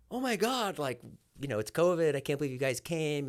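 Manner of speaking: high, gushing disbelief; a fan amazed at the door; mock surprised fan. Imitating a mom greeting David, high and amazed.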